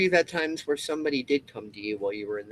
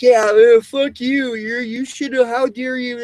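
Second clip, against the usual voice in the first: 1 imitated hostility; 9 semitones higher, 8 dB louder than usual. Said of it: "even though they're like".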